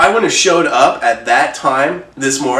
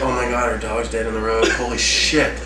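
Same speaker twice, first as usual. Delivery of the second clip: shocked; 3 semitones lower, 6 dB quieter than usual. Retold or imitated. Seeing dog dead in road.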